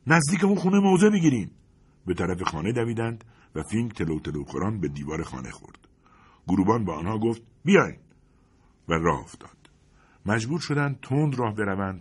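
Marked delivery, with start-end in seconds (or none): 0.1-1.5 high, loud barked order; sergeant's shout. Acted. Sergeant ordering his men to take cover, loud shout. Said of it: "فریاد زد". 7.6-8.0 high, loud call; sharp command. Acted. Sergeant calling the men to follow, loud order.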